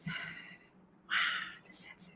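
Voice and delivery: a hushed, breathless "wow"; playful whispered reaction to her own topic; mock whisper. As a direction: whisper it like a mock unimpressed aside.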